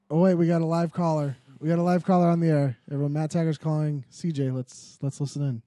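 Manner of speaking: fast mock radio host. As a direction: announce the live caller.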